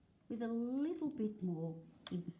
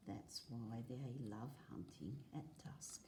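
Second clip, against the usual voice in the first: whisper; 6 semitones lower, 9 dB quieter than usual. Acted. Reading, voice drops to whisper.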